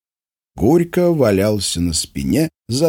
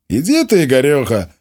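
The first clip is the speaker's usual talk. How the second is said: offended; 7 semitones higher, 4 dB louder than usual. A narrator's reading. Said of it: "обиделся Димон".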